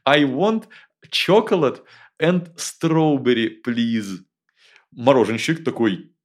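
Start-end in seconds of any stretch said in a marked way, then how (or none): 0.0-4.2 high, loud, careful schoolboy English; proud child English. Retold or imitated. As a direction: spell out the order slowly like a kid. Kid orders in English proudly.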